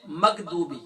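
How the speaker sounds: "مغضوبی" with a hard g sound; "مغضوبی" with a stop instead of throaty غ; common mispronunciation. Shown as a demonstration. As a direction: say "مغضوبی" as makdubi, the everyday way. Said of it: "ہم کیا پڑھتے ہیں".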